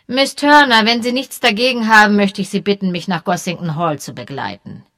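a police chief making a firm request; lightly voiced official colonel; Colonel Melchett. Melchett addresses Josie.

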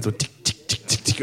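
light, unvoiced-sounding ticks in quick little steps; imitated pattering footsteps. Dad mimicking his kid's little feet tripping along, soft ticking. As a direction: tick softly like tiny feet.

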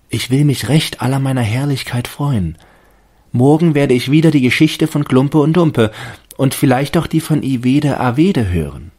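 hohe, lautere, gläubige Baumstimme; Stimme des Baumes. A narrator's reading. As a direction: als staunender Tannenbaum. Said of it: "dachte er". (hohe, überzeugte Baumstimme)

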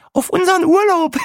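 very high, loud giggly cheer; laughing toast. A narrator's reading. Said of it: "lachte Brenda". (lachend, hoch angestoßen)

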